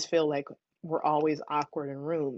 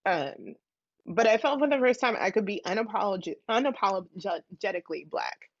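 tearful, voice wobbling with tears; speaking through real tears; crying. Real, not acted. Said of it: "I am so sorry I'm crying".

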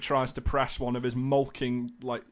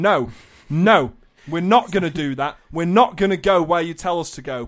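louder, emphatic mock protest; defiant protest; 4 semitones higher, 6 dB louder than usual. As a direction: push back firmly, as a rallying refusal. Acted defiance of Tetris pieces.

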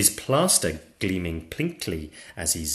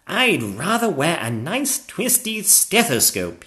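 higher-pitched knight's voice; eager knight; 9 semitones higher, 5 dB louder than usual. Acted. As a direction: confide your wish as the knight. Knight shares his wish.

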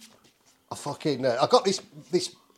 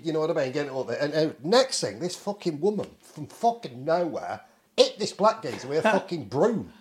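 normal talking voice

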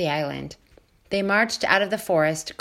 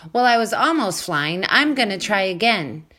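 eager; 2 semitones higher, 4 dB louder than usual. Acted. Gosling insists, eager.

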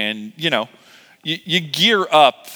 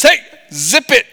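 higher, louder playful rebuke; mock God; 10 semitones higher, 8 dB louder than usual. God hushing chatty Peter, playful mock rebuke. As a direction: snap a comic hush at him. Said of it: "And God says".

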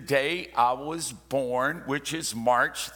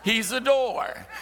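laughing exclamation; 8 semitones higher, slower than usual. Real, not acted. Laughing emphatic point.

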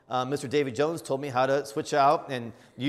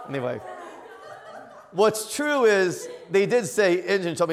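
normal talking voice

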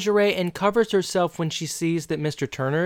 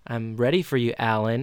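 sultry voice; 5 semitones lower, 3 dB quieter than usual. Retold or imitated. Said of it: "her being sexual".

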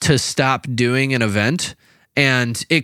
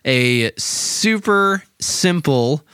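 home shopping host. Pretend. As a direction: sell it like a TV infomercial. Mock infomercial pitch for podcast.

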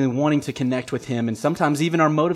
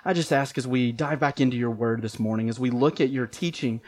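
prayer; 3 dB quieter than usual. Real, not acted. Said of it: "Let's pray".

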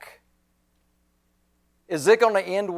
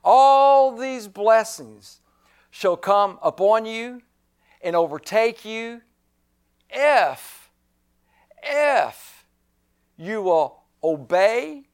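proclaiming Moses; 3 semitones higher, slower than usual. Acted. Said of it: "Moses said".

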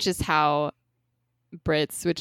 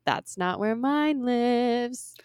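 whispered lyric; 4 semitones higher, 3 dB quieter, much slower than usual. Pretend. Reading lyric, last line whispered.

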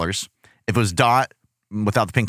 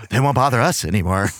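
sinister; 3 semitones lower than usual. Retold or imitated. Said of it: "I'm in the corner just like".

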